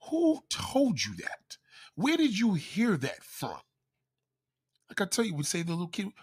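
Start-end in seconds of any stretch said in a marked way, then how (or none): 0.1-3.6 high, slow whispered demand; slow, hushed disbelieving interrogation; incredulous questioning. Retold or imitated. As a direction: press him on where he heard it. Retelling questioning cousin.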